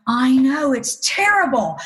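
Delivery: feigned agreement. Retold or imitated. Hiding her secret among the trainees, feigning horrified agreement. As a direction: overplay going along with their horror. Faking agreement with the other women.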